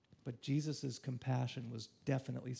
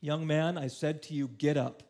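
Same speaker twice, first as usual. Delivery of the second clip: commanding call; 6 dB louder than usual. Acted. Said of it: "he said".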